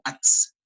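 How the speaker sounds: "ats" with the final z sounded as a hissed ts; theoretical pronunciation. Shown as a demonstration. Teacher shows class how it should sound, theoretical pronunciation of "ats". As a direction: say "ats", ending on a drawn-out ts. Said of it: "debería pronunciarse así".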